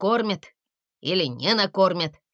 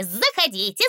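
welcoming. A narrator's reading. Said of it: "Восторженно засуетился он".

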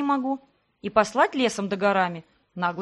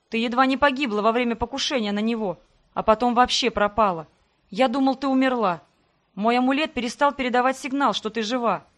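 rushed, tumbling apology, a bit louder; halting, hurried; 4 dB louder than usual. Acted. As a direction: hurry to confess, words tripping. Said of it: "сбивчиво говорил Себастьян, торопясь повиниться".

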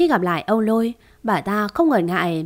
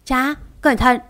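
shouted warning; 4 semitones higher than usual. Acted. Son shouting a warning to his father, urgent cry. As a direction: yell to stop the knife. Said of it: "chạy theo la lên".

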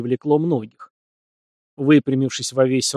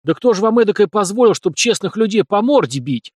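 higher, louder indignant outrage; working up anger; 7 semitones higher, 4 dB louder than usual. A narrator's reading. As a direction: get worked up at the officer. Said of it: "Начал заводиться он".

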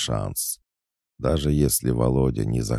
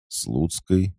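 higher, rising echo question; surprised; 7 semitones higher than usual. A narrator's reading. Demidov hearing of rumours about him and Slutskaya, surprised. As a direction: repeat the name in surprise. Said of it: "удивился Демидов".

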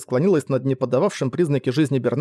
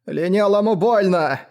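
high, slow whining simpleton; childlike whimper; 5 semitones higher, slower than usual. A narrator's reading. Frightened slave complains of pain, whimpering. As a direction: whine like an overgrown child. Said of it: "захныкал раб и, словно ребёнок-переросток".

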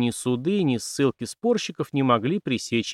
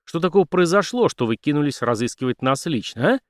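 angry accusation; 2 semitones higher than usual. Acted. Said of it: "Неожиданно разозлился Дик".

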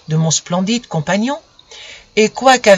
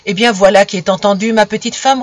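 appeased sun; 4 dB louder than usual. Acted. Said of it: "tout à fait apaisé".

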